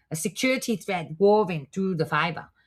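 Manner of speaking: attempted, put-on Chinese accent. Reading a prepared text aloud for the chat, attempted Chinese accent. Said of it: "think I sound more Russian".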